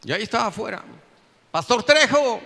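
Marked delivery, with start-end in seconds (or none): 1.5-2.4 loud, raised call from outside; shouting. Retold or imitated. Man outside the pastor's locked house at night, shouting. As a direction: call out to someone shut indoors. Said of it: "gritaba yo".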